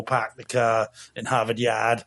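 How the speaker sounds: slow, hammed-up Boston accent, R's dropped; bad Boston accent. Co-host mimicking an actress's worst Boston accent, hammed up. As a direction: lay on a mock Boston accent, unhurried. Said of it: "award for worst Boston accent".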